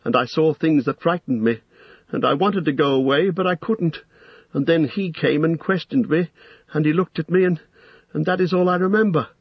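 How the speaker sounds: put-on high, frightened young hobbit voice; stammering confession. A narrator's reading. Frightened hobbit confessing to the wizard, nervous stammer. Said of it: "stammered Pippin".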